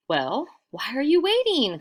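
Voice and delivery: high, loud urging; crying out. Acted. Travelers urging the villagers, loud high cry. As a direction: hurry them up. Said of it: "cried the travelers".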